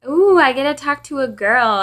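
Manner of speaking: mock-thrilled "ooh", high and loud; creepy caller imitation. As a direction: imitate a creep savouring the moment. Retelling the creepy caller's repeat.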